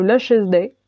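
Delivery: slow French-accented attempt at English; self-mocked English accent. Real, not acted. Vlogger naming her mascara for viewers, in a wobbly English accent. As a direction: say the English product name slowly in a French accent. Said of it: "Absolument magnifique mon accent anglais".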